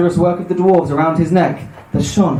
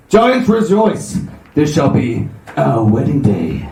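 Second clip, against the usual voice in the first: measured, declaiming giant's proclamation; lightly voiced giant king. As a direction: declaim lightly as a giant groom, building to a call.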